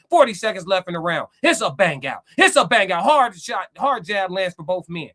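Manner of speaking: excited live fight commentary; boxing play-by-play. Acted. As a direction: call the fight round by round.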